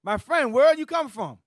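"My friend" cried out, pitch climbing in disbelief; hurt, stunned friend. Retold or imitated. Jesus confronting Judas at the kiss, loud wounded disbelief.

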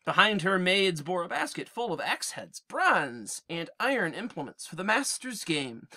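reading the Odyssey aloud to the class; measured storyteller's read; a teacher reading verse; epic reading. A narrator's reading. Reads epic poem aloud.

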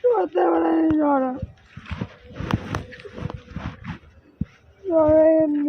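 tearful, insistent order; real weepy protest; crying. Real, not acted. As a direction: send him away while crying. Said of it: "please, কেঁদো না".

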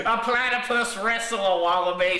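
put-on "wrestle" said carefully as a correction in Australian accent; Australian correcting himself; clearer Australian accent. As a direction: fix "wrestle" plainly after the slip. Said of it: "my accent gets a little thick".

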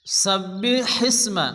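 সাব্বিহিসমা with a breathy ha pushed out on air; breathy big ha. Shown as a demonstration. Teacher demonstrating the big ha to students, breath out. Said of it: "বড় হা ... মুখ দিয়ে বাতাস বের করে".

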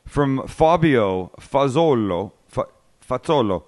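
Fazzolo said with a light Italian accent, slow; a hint of Italian on Fazzolo. Shown as a demonstration. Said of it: "I'm saying it with an Italian accent".

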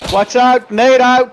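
grenade warning yell. Real, not acted. Grenade incoming in firefight.

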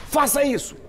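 high-pitched imitation of bossy orders; mock commanding. Priest mimics believers ordering God to serve them, mock commanding. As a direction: bark mock orders, each one separate.

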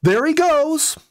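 high, delighted exclamation; excited cry. A narrator's reading. Jenny sees the healed chipmunk bolt out the door, excited high cry. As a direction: call out in surprise as he dashes past. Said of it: "I heard her cry".

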